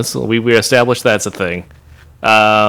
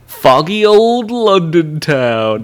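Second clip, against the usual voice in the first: put-on slow, higher British accent; mock British accent; 4 semitones higher, slower than usual. Podcaster joking about a British accent's origin, drawn-out mock British. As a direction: stretch it out in hammy British.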